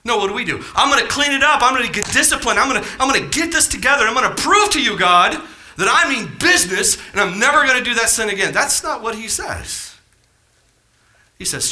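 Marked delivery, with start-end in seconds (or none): 0.8-8.5 high, insistent mock pledge; fervent resolve. Preacher voicing a believer proving himself to God, high fervent resolve. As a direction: pile up the promises, raised and urgent. Acting out self-reliant sinner's resolve.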